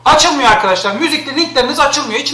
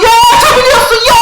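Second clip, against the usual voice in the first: sing-song mockery, much higher, louder and fast; mocking viewers; 11 semitones higher, 7 dB louder, faster than usual. Streamer mocking chat's nagging in a high, loud, fast singsong. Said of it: "o yüzden bana hala aptal aptal".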